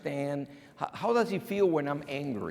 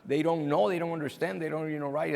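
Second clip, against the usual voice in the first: worried panel; 4 semitones higher than usual. Acted. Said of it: "makes the panel worry".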